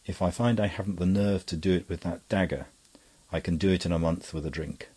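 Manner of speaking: icy candour. Acted. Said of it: "with the same icy candour".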